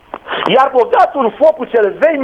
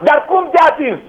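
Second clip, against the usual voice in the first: higher, shouted question; puzzled shout; 6 semitones higher than usual. Acted. Disciples question Jesus, puzzled.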